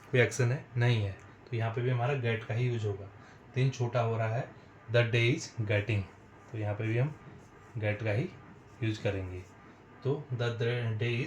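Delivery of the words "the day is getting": drawn-out words; slow dictation. Shown as a demonstration. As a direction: dictate slowly for note-taking. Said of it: "teacher dictating slowly". (धीरे-धीरे लिखवाना)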